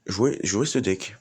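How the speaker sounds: slow, loud and emphatic plea; insistent urging. Real, not acted. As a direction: press each word on the viewers. Urging viewers to play deck. (insistant et appuyé)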